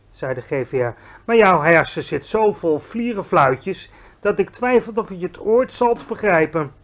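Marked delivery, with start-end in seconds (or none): 1.2-6.7 higher, louder baffled giant; a giant scolding a silly girl; exasperated giant. Acted. Giant lecturing Sophie about bubbles, exasperated.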